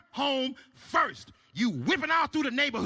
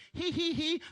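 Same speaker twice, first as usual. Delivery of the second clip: giggle; 6 semitones higher than usual. Acted. Couple giggling at the club.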